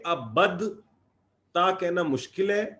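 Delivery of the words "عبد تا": slow demo. Shown as a demonstration. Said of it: "تو عربوں نے اس کو عبدتا بولا ہے".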